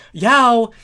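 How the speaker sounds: high, loud call down the tunnels; shouted call. A narrator's reading. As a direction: yell for your friend across the maze. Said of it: "Thorax shouted out into the maze".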